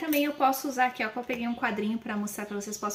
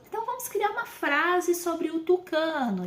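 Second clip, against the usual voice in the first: teacher prompt; 5 semitones higher than usual. Shown as a demonstration. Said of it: "vou pegar lá uma palavra e dizer".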